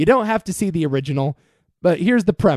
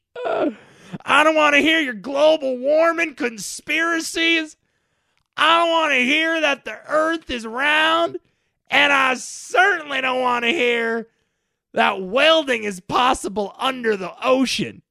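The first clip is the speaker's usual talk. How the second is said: high, rising shouting that builds as it goes; 7 semitones higher than usual. Podcast host rants at listeners who might email corrections, yelling. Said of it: "I'm yelling, I'm shouting".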